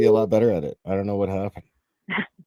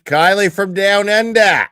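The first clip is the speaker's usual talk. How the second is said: slow, loud, drawn-out Aussie imitation of Kylie from Down Under; mock Australian accent; 7 semitones higher, 7 dB louder, much slower than usual. Host mimicking the Australian caller's intro in an Aussie accent. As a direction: stretch it like a cartoon Australian, higher pitched.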